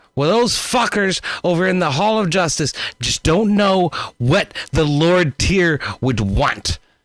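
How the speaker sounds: very high-pitched, heated, ranting delivery. Narrator voices an older man in a heated discussion in the hall: heated arguing. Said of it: "a heated discussion".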